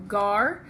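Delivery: "gar" said as a separate chunk; isolated syllable. Shown as a demonstration. Teacher sounds out a word's first syllable, "gar" isolated. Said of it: "your first syllable is".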